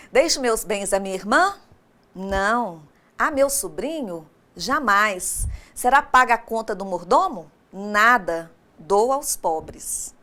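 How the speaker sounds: "irmã?" rising, "Não." and "Jamais." short and firm, "Nada." then a slow "Dou aos pobres"; with intonation. Shown as a demonstration. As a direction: act out each question and answer with clear intonation. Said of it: "tem que ter entonação".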